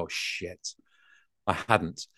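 caught out. Retold or imitated. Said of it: "And you go".

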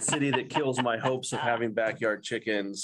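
mock-grand crying out; mock lament. Pastor playfully laments the city that banned backyard chickens, mock lament. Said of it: "So I cried out".

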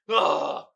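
imitated exasperated groan; stressed groan. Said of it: "That's how he looking".

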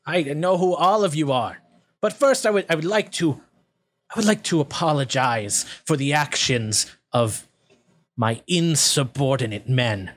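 a hint of a theatrical villain; goblin leader. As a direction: apologize with oily formality. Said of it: "He says".

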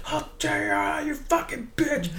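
high, slow snarling doll; Chucky voice. Retold or imitated. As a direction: spit it out like a killer doll. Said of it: "he's like".

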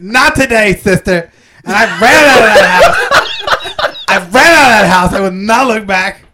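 lightly voiced Joan Rivers ghost story; a hint of Joan Rivers, camp and laughing; Joan Rivers impression. Comic ghost anecdote told as Joan Rivers. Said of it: "are you doing Joan Rivers".

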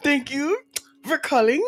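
halting French accent, lilting up at the ends. Shown as a demonstration. Friend asked for a French one, French accent. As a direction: pause midway, playful French accent. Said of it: "Yeah, French one".

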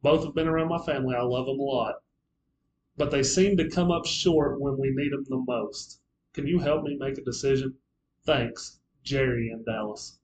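reads a fan's letter aloud on air. Shown as a demonstration. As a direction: read the letter out to the listeners. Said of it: "the person writes".

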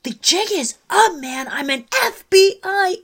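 high, loud hammed-up FBI reveal; mock heroic announcement; mock movie line. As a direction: belt it out like a proud undercover cop. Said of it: "And he's like".

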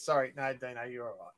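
hushed sorry to Dino; quiet mock reassurance; soft apology.

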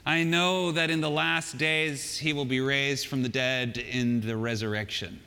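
mildly sad, slow recital of belief; understated sorrow, sinking at the end. Acted. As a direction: recite it slowly with resigned sadness. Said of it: "in a sad voice".

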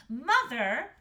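high, loud daughter; insistent Astrid. A narrator's reading. Daughter answering the pleading mother, insistent. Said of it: "said Astrid".

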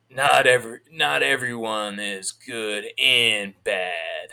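slow, drawn-out movie star line; Stallone impression. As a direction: drag it out like Stallone. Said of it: "Sylvester Stallone goes".

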